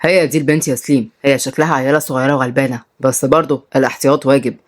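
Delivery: slightly low male character voice; hint of a crime boss; lightly voiced Salim's gang. Narrator voices the men's dialogue.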